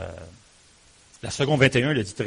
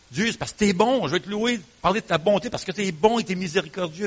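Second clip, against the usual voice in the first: joyful praise; 7 semitones higher than usual. Acted. Voicing praise to God.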